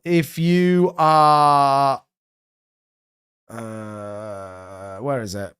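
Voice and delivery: words stretched by a yawn. Real, not acted. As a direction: talk through a big yawn. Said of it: "yawn my head off then".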